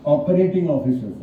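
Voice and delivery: slow, deliberate, each word set apart; correcting the name, slowly; spelled out slowly. Shown as a demonstration. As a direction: lay out the full title carefully. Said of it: "shortcut में है COO".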